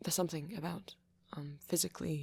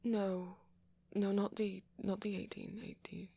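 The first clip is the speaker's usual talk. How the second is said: slightly higher, protesting correction; flustered denial; 3 semitones higher than usual. Acted. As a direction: hurry to correct a wrong assumption. Hastily correcting the listener's assumption.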